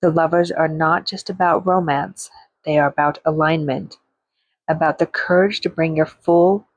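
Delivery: measured free-verse reading, phrase by phrase; poem recitation. Acted. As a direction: read it as spoken-word poetry with deliberate pauses. Recites her second poem.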